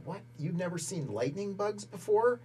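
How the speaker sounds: high, disbelieving rise at the end; mock disbelief at the hicks; incredulous sergeants. Sergeants mocking recruits from Montana, lightly incredulous. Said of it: "they're like".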